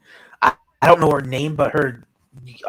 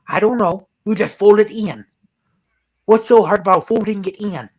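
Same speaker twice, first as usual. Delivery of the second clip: put-on higher, folksy Minnesota accent; 5 semitones higher than usual. Facebook mom answering fans, mock Minnesota accent. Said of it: "that Minnesota slash North Dakota accent".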